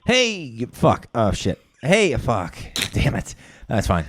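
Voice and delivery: flustered, swearing at slips; nervous stumbling. Real, not acted. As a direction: trip over the words, nervous. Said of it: "Sorry, I'm nervous".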